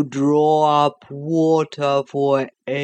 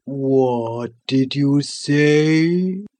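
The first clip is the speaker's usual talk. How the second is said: sleepy creature voice; much slower than usual. Acted. The Sloth, shocked awake.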